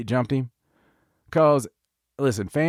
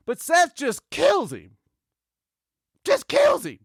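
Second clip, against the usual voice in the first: excited; 13 semitones higher than usual. Real, not acted. Excited recap of a beatdown.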